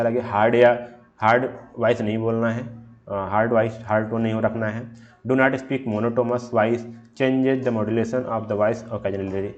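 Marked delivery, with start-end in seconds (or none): 5.3-9.5 reading the slide slowly and deliberately; slow, careful slide reading; slow read-aloud. Shown as a demonstration. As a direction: dictate each word of the definition.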